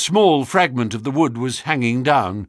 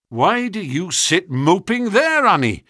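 cried out; 8 semitones higher than usual. A narrator's reading. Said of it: "cried her brother".

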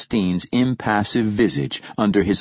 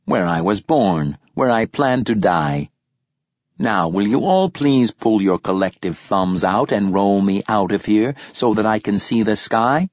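rasping voice synthesizer. Acted. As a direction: rasp it out like an old machine. Dying poet's synthesizer voice continues.

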